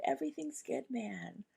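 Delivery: put-on a loose, easy Southern accent like McConaughey; Matthew McConaughey accent. Laid-back Texan accent as the calm bee spirit. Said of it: "channeling this bee medicine in, like, a Matthew McConaughey, uh, accent".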